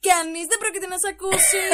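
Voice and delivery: put-on a spoiled girl taunting her victim through the door; gloating taunt. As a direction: rub it in that nobody will come. Bully gloating at locked door.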